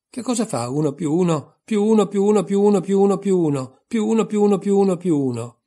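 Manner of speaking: high, loud sing-song string of sums; raffica di somme. A narrator's reading. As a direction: reel off the sums loudly on a high, insistent note. Regina interroga Alice con raffica. (filastrocca di somme, acuta e martellante)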